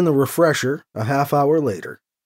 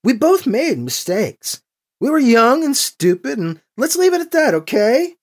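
nearly shouting; 9 semitones higher, 3 dB louder than usual. A narrator's reading. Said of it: "She's getting louder".

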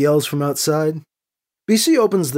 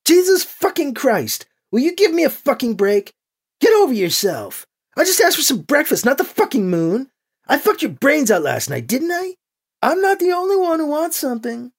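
furious, raised voice; angry yelling; 11 semitones higher than usual. A narrator's reading. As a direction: yell it down at him in a rage. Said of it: "and yells".

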